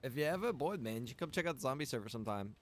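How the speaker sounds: normal talking voice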